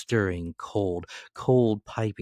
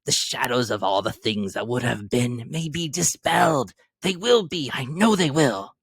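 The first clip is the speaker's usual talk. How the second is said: giddy, teary relief; tearful joy; 7 semitones higher, 5 dB louder than usual. A narrator's reading. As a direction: laugh through tears of relief. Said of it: "sobbing violently in his conflict with the spirits".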